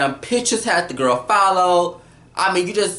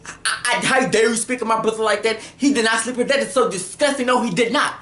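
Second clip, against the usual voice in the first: higher-pitched, mildly offended retort; defensive indignation; 4 semitones higher, faster than usual. Retold or imitated. Recapper acts out sister defending her brother, indignant. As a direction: imitate someone leaping to a defense. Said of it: "instantly got into defense mode".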